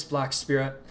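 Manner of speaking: a firm named address; calling a name. Acted. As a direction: call the title out across the field. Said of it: "a woman's voice call".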